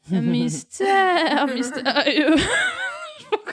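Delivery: bleating high goat voice. Acted. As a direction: bleat the words like a goat, laughing. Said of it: "Pourquoi tu fais la chèvre?". (voix de chèvre qui bêle en riant)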